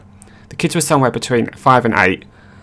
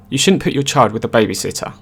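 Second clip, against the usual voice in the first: know-it-all. Retold or imitated. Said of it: "in a know-it-all voice".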